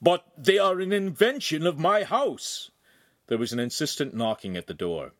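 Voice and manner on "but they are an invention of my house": high, louder horrified outburst; a shocked, raised protest; horrified cry. Acted. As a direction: cry out in alarm. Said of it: "Horrified, ... crying".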